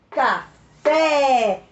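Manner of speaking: Café with a short Ca and a loud, long open fé; Café in two beats, hammering the final é; stressed last syllable. Shown as a demonstration. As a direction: pause after Ca, then stretch the fé of Café. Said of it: "Última sílaba tônica é aberto".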